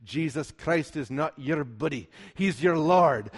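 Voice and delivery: light imitation of a Scottish preacher's accent; Alistair Begg's Scottish accent. Preacher quoting admired colleague on Christ as Lord, Scottish accent. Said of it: "in his glorious Scottish accent".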